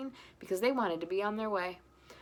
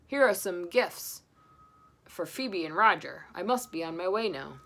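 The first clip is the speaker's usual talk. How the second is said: Santa; 5 dB louder than usual. Acted. Santa giving gifts before leaving, jolly. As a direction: hand gifts warmly.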